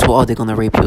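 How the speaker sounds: low, mock-threatening quote; menacing. Mimicking tormentors who use threats to disorient, lightly menacing. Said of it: "like, menacing voice".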